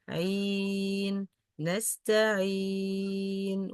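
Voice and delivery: نستعين drawn out slowly with a light kasra; slow نستعين, kasra not pressed; unstressed kasra. Shown as a demonstration. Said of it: "without stressing on kasra".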